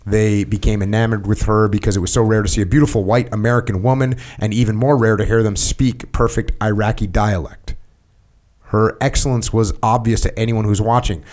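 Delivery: steady, slightly lifted read-aloud voice; reading aloud from a book. Acted. Host reading a book passage to his guest, read-aloud voice. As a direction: read the written account evenly, phrase by phrase.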